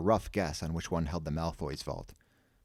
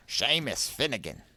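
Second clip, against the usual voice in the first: raised, awed exclamation; a touch of starstruck gasp; 5 semitones higher than usual. A narrator's reading. Door voice recognising Seamus, gasping.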